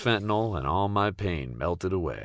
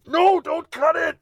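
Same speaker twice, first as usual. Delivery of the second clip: very high, loud, slow squealing protest; squeaky scream; 7 dB louder, slower than usual. Retold or imitated. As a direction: shriek it at the scissors. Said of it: "and scream".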